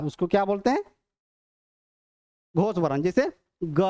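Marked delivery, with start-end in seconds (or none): 3.6-3.8 "ग" held long so the voice rings; resonant, ringing. Shown as a demonstration. Teacher giving a voiced-letter example, "ग" left resonating. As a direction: sustain "ग" with a humming voiced ring. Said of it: "sound गूंजता है".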